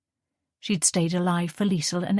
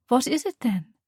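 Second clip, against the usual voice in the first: gently; 6 semitones higher than usual. Acted. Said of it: "Ariella asked gently".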